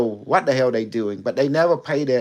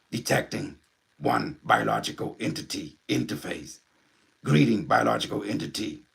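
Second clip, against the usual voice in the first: Unimetric One; 2 semitones lower, 3 dB quieter than usual. Acted. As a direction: speak like an alien intelligence through a medium. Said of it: "you wanna meet, uh, Unimetric One?".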